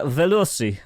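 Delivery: badly faked German accent; attempted German accent. Shown as a demonstration. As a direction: have a clumsy go at a German accent. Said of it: "do it with a proper German accent".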